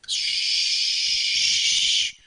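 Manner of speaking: put-on whispered shush like soothing a baby; breathy comforting shush. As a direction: hush them gently. Shushing as the painting.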